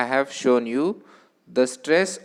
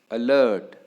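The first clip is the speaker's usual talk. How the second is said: "अलर्ट" with weight on a falling लर्ट; short अ, then a strong "लर्ट" in "अलर्ट"; stress on second syllable; faster than usual. Shown as a demonstration. Teacher counting vowels for students, "अलर्ट" stressed on लर्ट. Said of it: "Stress is on the".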